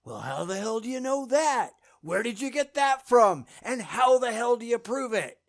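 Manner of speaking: a hint of a challenging little voice; little inner voice. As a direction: quote the nagging doubter in your head. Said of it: "a little voice going".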